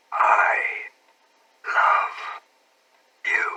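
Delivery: put-on breathless whisper of a shy girl. A narrator's reading. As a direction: whisper it right into his ear. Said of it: "and whispered".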